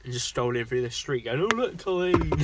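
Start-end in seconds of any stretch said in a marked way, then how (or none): 1.4-2.3 put-on Scouse accent. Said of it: "Your Scouse accent needs work".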